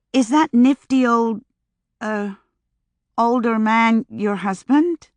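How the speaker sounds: astonished question. A narrator's reading. Sunny gawking at Mary's older husband, astonished and slow. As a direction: marvel at it. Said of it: "she asked in astonishment".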